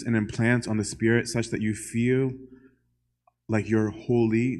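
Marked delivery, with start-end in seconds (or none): 3.5-4.6 slow, deliberate wholly; stressed wholly. Shown as a demonstration. Preacher stressing wholly to the congregation. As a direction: lean on wholly so it can be spelled next. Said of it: "W H O L L Y".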